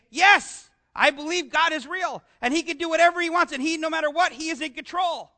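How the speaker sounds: bursting out yes, then a quick eager affirmation; excited declaration. Pretend. Preacher voicing a thankful believer, eagerly declaring faith. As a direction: proclaim it like a grateful believer.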